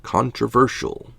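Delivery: sarcastic. Acted. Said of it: "as quote-unquote".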